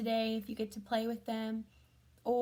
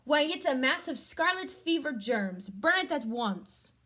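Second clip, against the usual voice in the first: doctor's voice; 3 semitones higher, 6 dB louder than usual. Acted. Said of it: "said the doctor".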